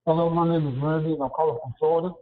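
muffled phone line; in a tunnel. Real, not acted. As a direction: sounds like calling from underwater. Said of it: "You sound like you're in a tunnel".

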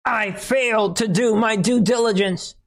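high, whiny fake-tearful whimper; mock crying voice. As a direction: ham up a weepy confession. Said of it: "her voice breaking at times".

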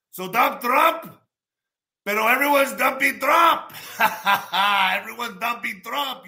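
high, slow laughing chant; laughing shout. Real, not acted. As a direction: crow it out while laughing.

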